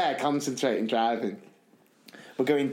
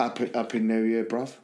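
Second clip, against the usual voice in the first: Cockney John; 5 semitones lower than usual. Retold or imitated. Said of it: "I give Cockney John a bell".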